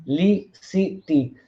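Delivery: "publicity" broken slowly into pub, li, ci, ty; syllable by syllable. Shown as a demonstration. Lecturer counting syllables for students, "publicity" in four slow separate beats. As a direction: spell out publicity slowly, one syllable at a time. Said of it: "four syllables".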